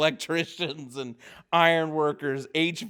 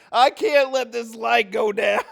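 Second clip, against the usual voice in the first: mock panic; 7 semitones higher, 7 dB louder than usual. Retold panic as light falls.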